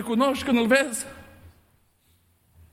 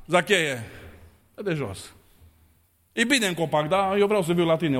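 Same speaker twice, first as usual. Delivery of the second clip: gentle call; 4 semitones lower than usual. Acted. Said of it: "se oprește Iisus și spune".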